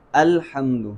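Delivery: "الحمد" with a distinct glottal onset on the first a; careful model "الحمد", opening vowel fully sounded; clear hamza. Shown as a demonstration. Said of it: "ہم نے خوب واضح کرنا ہے".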